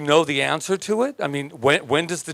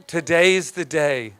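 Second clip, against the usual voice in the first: "Today's the day" slowed down, falling; slow repeat; slower than usual. Shown as a demonstration. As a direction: let it sink in slowly.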